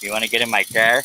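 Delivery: a New Yorker asking a favour; New York accent. Retold or imitated. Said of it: "that sounds very New Yorkan to me".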